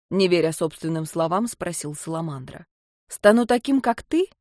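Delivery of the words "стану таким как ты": rising, hopeful question; hopeful disbelief. Acted. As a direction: ask it, barely daring to hope. Salamander asks in disbelief.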